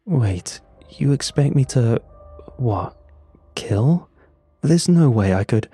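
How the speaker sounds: incredulous, voice jumping up; stunned disbelief, pushing back; shocked. Acted. Protagonist balks at killing.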